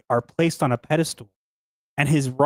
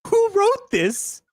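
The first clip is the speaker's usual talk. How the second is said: laughing; 13 semitones higher, slower than usual. Real, not acted. Laughing at the text.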